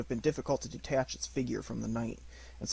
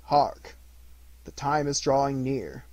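grave spirit voice, louder; loud solemn ghost; 2 semitones higher, 7 dB louder than usual. Acted. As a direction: boom out a solemn warning. Ghost warns Scrooge of midnight.

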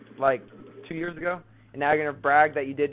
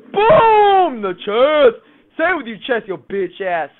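triumphant shout; 6 semitones higher, 14 dB louder, slower than usual. Real, not acted. Gloating after a kill.

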